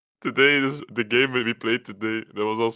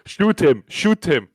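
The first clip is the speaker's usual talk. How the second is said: louder, higher imitated teammate shouting orders; mock bossy callout; 7 semitones higher, 7 dB louder, slower than usual. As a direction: parrot the micromanaging teammate's yelling.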